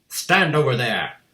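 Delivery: slow, loud command; ordered. A narrator's reading. Headmistress directing the boy on stage, stern loud order. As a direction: bark a firm order. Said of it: "the Trunchbull ordered".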